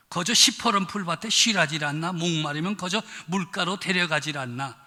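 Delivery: a lightly voiced Pyongan northern dialect, chatty and blunt. Pastor playing the Pyongan version of the psalm, in Pyongan dialect. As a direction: give the psalm a folksy Pyongan twang. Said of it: "평안도 버전은 어떻게 됐나?".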